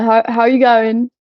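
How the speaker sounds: loud, drawn-out bad Australian accent; attempted Australian accent. Shown as a demonstration. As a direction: have a clumsy go at an Australian accent, slipping towards British. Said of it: "I can't do the accent".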